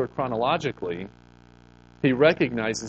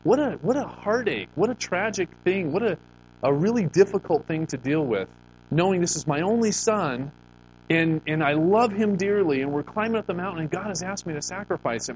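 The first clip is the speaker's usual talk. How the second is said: higher, anguished father; Abraham's heartache; 5 semitones higher than usual. Acted. Abraham thinking of his only son, higher and anguished. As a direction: voice the father's grief, pitched up.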